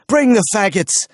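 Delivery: high, loud battle cry; cried out. A narrator's reading. Smith commands his men, loud cry. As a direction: shout it to the troop. Elric keeps crying orders.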